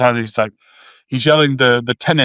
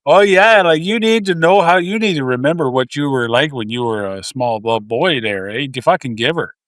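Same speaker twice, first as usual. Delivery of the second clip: Canadian hockey dude. Pretend. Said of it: "this should have been a Canadian dude".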